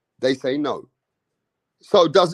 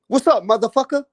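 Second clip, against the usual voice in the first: higher American greeting with "motherfucker" rising; even more exaggerated American impression; mock American, bigger; 7 semitones higher than usual. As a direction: ham up the American "What's up, motherfucker?". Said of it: "Americans use the motherfucker word".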